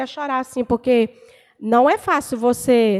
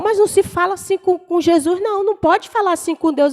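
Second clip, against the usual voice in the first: higher-pitched, mildly shocked reproof; retold scolding; 6 semitones higher than usual. Long-time believer correcting her way of praying, mock reproof in a raised pitch. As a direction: imitate a disapproving church sister, pitched up.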